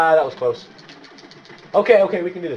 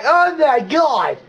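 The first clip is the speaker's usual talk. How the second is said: high, drawn-out exclamation; Stewie; 7 semitones higher, 4 dB louder, much slower than usual. Real, not acted. Player about to shoot a guy, high cartoonish cry. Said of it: "You sound like Stewie".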